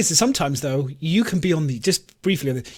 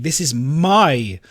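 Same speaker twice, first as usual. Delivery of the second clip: possessive tourist; slower than usual. Retold or imitated. Mock tourist claiming sun lounger.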